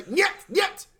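high, loud mock Russian refusal; Russian nyet. Mocking the general refusing the contractors, high and loud. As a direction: bark nyet like a stubborn general. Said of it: "if you want to say".

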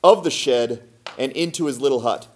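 expressive storybook reading; story narration. A narrator's reading. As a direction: tell it as a folk tale, figures lightly voiced. Reads a folk tale aloud.

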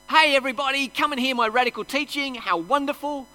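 hammed-up ironic cheer; mock boast. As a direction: sell it like a proud showman, tongue in cheek. Mock self-congratulating Jesus.

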